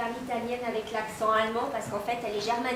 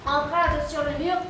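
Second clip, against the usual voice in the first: a lightly declaimed queen's monologue, slightly raised; reine de tragédie en répétition; 3 semitones higher than usual. Acted. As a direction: rehearse a tragic queen's lines, lightly theatrical. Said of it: "Le monologue de la reine d'Espagne". (reine d'Espagne déclamée avec retenue)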